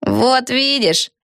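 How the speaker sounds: very slow, knowing; slow, smug; smirking. A narrator's reading. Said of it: "ухмыльнулась Пегги".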